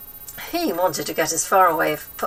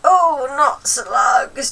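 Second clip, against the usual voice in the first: high, slow wail of horror; boy horrified by slugs, high slow wail; crying out in dismay; 7 semitones higher, 9 dB louder, much slower than usual. A narrator's reading. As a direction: wail it slowly, high and louder. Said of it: "George cried out".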